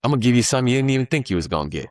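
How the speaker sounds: high, lightly voiced market handing over a gift; market as generous giver. The market rewards a patient trader, voiced high. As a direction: play the market like it's rewarding you. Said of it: "the market is like".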